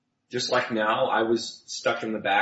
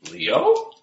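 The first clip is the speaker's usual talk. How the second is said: calling out; 5 dB louder than usual. Acted. Calling out into the void.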